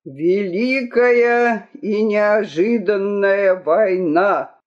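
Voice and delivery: slow, measured proclamation; announcer. A narrator's reading. War poster pasted on the town walls, proclaimed slowly. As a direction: read it out like a public herald.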